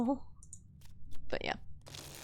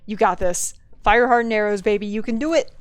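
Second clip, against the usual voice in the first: self hype; 5 dB louder than usual. Real, not acted. Cheering herself on in game.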